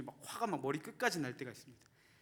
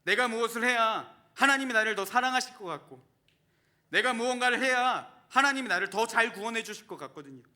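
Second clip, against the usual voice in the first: loud, high, driving sermon delivery; full-force preaching; 6 semitones higher, 8 dB louder than usual. Acted. Pastor urging the congregation not to earn grace, preaching loudly.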